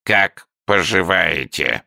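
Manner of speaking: a newt being very well-mannered; courteous salamander. A narrator's reading. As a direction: salamander answers with polite courtesy. Salamander small talk.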